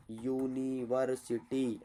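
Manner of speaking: यूनिवर्सिटी said slowly, each syllable drawn out as यू-नि-वर्-सि-टी; slow spelled-out pronunciation. Shown as a demonstration. Teacher showing students how to say यूनिवर्सिटी, sounded out slowly. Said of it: "Hindi में ऐसे ना लिखते हो".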